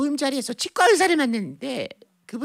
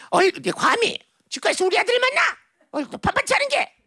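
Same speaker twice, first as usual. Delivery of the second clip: hammed-up indignant mother, pitched up; melodrama mother; 4 semitones higher than usual. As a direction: re-enact the soap-opera telling-off. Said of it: "무슨 막장 드라마의 한 장면처럼".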